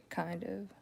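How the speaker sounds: ordinary delivery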